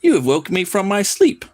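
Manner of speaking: hammed-up Leprechaun, pitched high. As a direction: greet them like a waking monster. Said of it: "Leprechaun's like".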